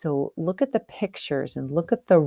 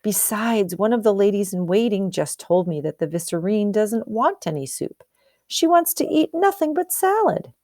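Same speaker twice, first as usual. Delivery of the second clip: cook voice; 3 semitones higher than usual. Acted. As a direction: gossip about the Vicereine's salad. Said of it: "exclaimed the cook".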